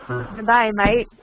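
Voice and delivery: mock-Australian, DAY said like "die"; put-on Aussie greeting, "mate" like "might"; Australian accent. Shown as a demonstration. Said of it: "have you heard an Australian accent?".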